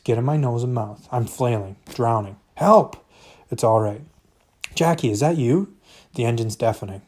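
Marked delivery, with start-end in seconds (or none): 2.6-3.0 high, loud panicked shout; desperate cry for help. Acted. Drowning in corn, calls for help. 4.7-5.7 startled call. Acted. Voice calls out in panic.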